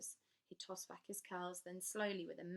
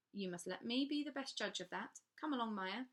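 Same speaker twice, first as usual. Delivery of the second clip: firm governess; 4 semitones higher, 4 dB louder than usual. Acted. Governess insists firmly.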